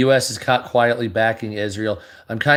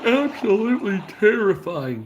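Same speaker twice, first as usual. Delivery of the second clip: stunned awe; 10 semitones higher than usual. Real, not acted. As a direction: let the word terrifying climb high. Repeats with bigger reaction.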